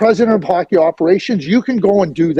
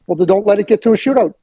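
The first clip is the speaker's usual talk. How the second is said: fast, wry comeback; quick retort; 3 semitones higher, faster than usual. Retold or imitated. Host retells his retort to Hitchcock, quick and wry. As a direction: toss off the answer quickly. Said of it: "what I would say".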